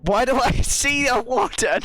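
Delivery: surprised. Real, not acted. Startled by a warden.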